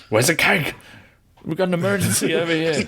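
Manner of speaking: high-pitched pretend panic call; mock emergency. Joking dad calling for nappy cake, mock panic. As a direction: call out for urgent help, hammed-up.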